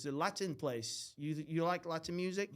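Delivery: put-on slow Borat-like foreign accent; mock foreign accent, drawn out; Emerson's accent, badly done. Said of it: "He's not Borat".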